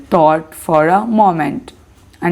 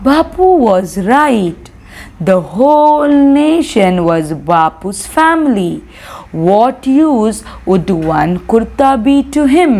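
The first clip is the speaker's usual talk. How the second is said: deliberate, measured read-aloud; story reading; slower than usual. A narrator's reading. Teacher reading the ending to students, deliberate story narration. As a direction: close the story clearly and unhurriedly.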